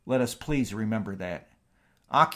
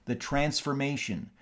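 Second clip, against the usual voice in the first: dictating; 2 semitones higher than usual. Shown as a demonstration. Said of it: "that's capital I period".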